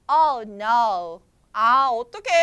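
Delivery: low, loud moan of mild dismay; mock dismay. Mouse George, stuck in trouble, moaning in mild mock dismay. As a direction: voice a mouse's low-pitched lament. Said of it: "지금 울고 있어".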